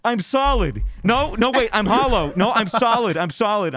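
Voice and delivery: very high, stoned wonder; awestruck tripping friend. Retold or imitated. Tripping friend reporting on his new shape, awestruck. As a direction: pitch it way up, amazed by your own body. Friend describes being a cube.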